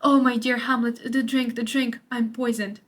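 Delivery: mild acted cry. Poisoned queen calls to Hamlet, mild cry. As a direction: cry out in lightly acted alarm. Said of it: "The queen shouts".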